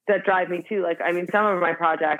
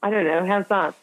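British accent. Shown as a demonstration. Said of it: "say in a British accent".

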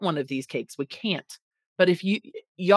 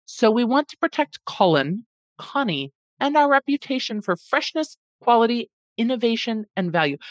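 attempted posh accent; 4 semitones higher than usual. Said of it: "I don't know how to do a posh accent".

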